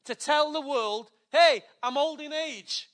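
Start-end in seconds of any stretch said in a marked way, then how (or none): 1.3-2.9 raised, loud mock old-man protest; lightly acted old Zechariah, higher and louder; voicing old Zechariah. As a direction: toss it out like an old priest's excuse. Preacher voicing Zechariah's excuse.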